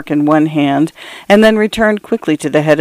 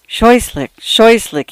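understated faltering, pitched higher; 6 semitones higher, slower than usual. A narrator's reading. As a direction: falter mildly over the repeated word. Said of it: "he faltered".

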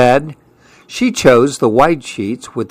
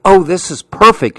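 thrilled; 5 semitones higher than usual. Acted. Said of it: "Sophia was thrilled".

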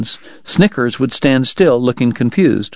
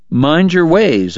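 horse's warning; 5 semitones higher, slower than usual. Acted.

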